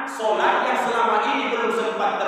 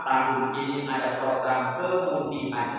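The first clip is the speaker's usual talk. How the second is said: lower, slow public announcement read; mock official announcer, slow and lower; 7 semitones lower than usual. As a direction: read it out like the tax office notice, lower and slower. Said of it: "Samsat Ujung Batu mengumumkan".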